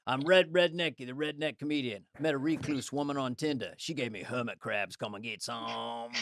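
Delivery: redneck comedian. Acted. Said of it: "how about this one?".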